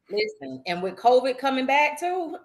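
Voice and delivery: hoarse, rough from laughing. Real, not acted. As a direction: voice worn out from laughing. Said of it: "I done lost my voice".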